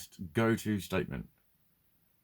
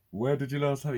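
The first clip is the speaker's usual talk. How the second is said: mock helpful question; 5 semitones higher than usual. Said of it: "You even go into character".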